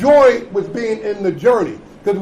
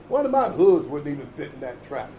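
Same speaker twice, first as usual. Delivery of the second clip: low pig voice; 8 semitones lower, 4 dB quieter than usual. Acted. Pig answers the mouse.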